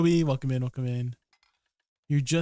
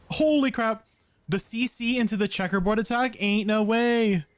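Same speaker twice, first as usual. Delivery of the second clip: loud, fast, hyped reaction; excited disbelief; 5 semitones higher, 6 dB louder than usual. Real, not acted. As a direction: shout in amazed disbelief. Reacting to big game attack.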